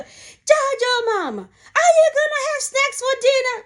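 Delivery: high teasing call across the room; yelling across the room. Retold or imitated. Aunties yelling across the cafeteria to tease the mother, high and playful. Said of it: "they'll be yell across the".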